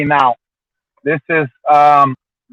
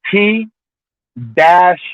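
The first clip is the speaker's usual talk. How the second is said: spelling out; 2 semitones higher than usual. Shown as a demonstration. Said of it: "the dash has to be there".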